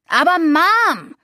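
high, slow whine; whining. A narrator's reading. Boy whining at his mom not wanting to leave. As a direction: drag it out like a sulking kid. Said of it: "heulte Aiden".

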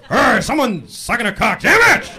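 high, indignant ranting; outraged homophobe. Retold or imitated. Angry guy fuming about gay people miles away, high outraged yells. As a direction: rage at something far away. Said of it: "There's guys that just like".

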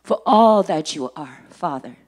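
measured prayer with falling phrases. Real, not acted. Preacher thanking God before the message, earnest prayer. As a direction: pray with firm emphasis, letting each phrase fall away.

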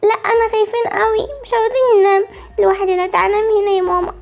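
put-on slightly high, pleading kid voice; a little child begging mama to stay; scared child. Child begs mother to stay. (صوت طفل خايف بيترجى)

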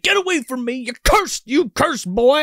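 host voicing Fixer shooing off the cursed boy; mock scared old man. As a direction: shoo him away in mock panic. Fixer voiced in recap.

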